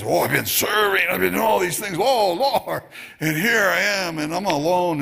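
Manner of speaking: lightly hammed-up martyr's lament; mock noble complaint. Preacher mimicking Elijah boasting of serving the Lord, mock noble complaint. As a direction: plead your noble record, mildly overacted. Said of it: "that doesn't sound nearly as noble".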